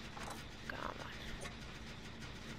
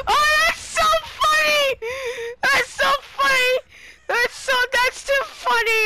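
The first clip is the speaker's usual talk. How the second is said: laughing hard; 9 semitones higher than usual. Real, not acted. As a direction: crack up while talking. Laughing at what happened.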